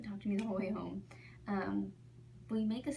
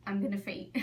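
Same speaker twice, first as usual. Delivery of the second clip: mock faint; 5 dB louder than usual. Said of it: "she grabs the wall".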